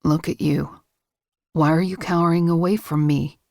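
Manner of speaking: low, soft male voice, gently concerned; soft, gentle man. A narrator's reading. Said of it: "his tone is soft and gentle".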